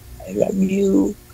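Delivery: muffled, nasal, quiet voice. Man asked to say it as loudly as he can, in a muffled, nasal, quiet voice. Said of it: "Pigil no? Galing sa ilong? Mahina talaga sir".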